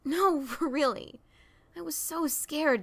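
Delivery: laughing through the words, slow. Acted. Daring laughing at the old memory. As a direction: chuckle while you say it. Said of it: "Daring's laugh grew stronger".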